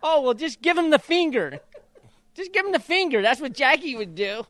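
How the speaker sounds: high, loud teasing through laughter; joking fatherly advice with a laugh. Retold or imitated. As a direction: tease your son while cracking up. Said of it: "I said".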